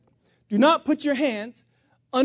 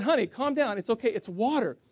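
soothing, settling down softer; calming reassurance; 3 dB quieter than usual. Retold or imitated. Husband to his panicking wife, reassuring. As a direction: talk her down from panic.

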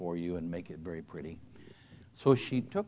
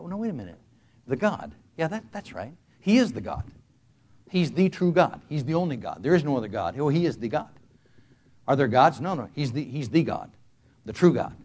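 rising into a louder, higher preaching voice; emphatic realization; 6 semitones higher, 9 dB louder than usual. Acted. Pastor realizing the truth aloud, preaching loudly. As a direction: proclaim it, building with conviction.

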